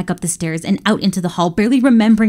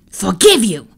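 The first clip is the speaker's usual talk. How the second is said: yell; 3 dB louder than usual. Acted. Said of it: "Bellows yelled".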